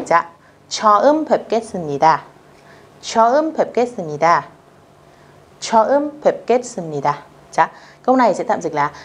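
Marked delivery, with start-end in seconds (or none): 0.7-2.2 처음 뵙겠습니다 said fast and smooth; natural speed. Shown as a demonstration. Teacher showing natural-speed 처음 뵙겠습니다. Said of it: "để cho câu này nó tự nhiên". 3.0-7.1 처음 뵙겠습니다 said fast and smooth; natural speed. Shown as a demonstration. Teacher showing natural-speed 처음 뵙겠습니다. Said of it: "để cho câu này nó tự nhiên".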